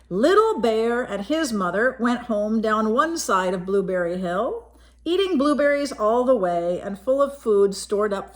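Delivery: put-on gentle read-aloud voice for a child; story narration. A narrator's reading. Reading a picture book to a child, gentle storytelling. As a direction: tell it like a bedtime picture book.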